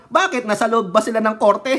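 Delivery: high, loud, incredulous bakit, then a fast scoffing question; mock outrage. Real, not acted. Vlogger scoffing at a rival's claim, incredulous and loud. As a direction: scoff at the idea they were in court.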